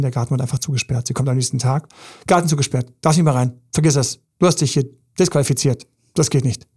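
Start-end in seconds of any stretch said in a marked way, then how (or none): 2.3-6.7 louder, hammed-up accusing rant; accusing partner. Partner shuts her out of the garden, loud accusing. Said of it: "das kriegt sie alles vorgeworfen".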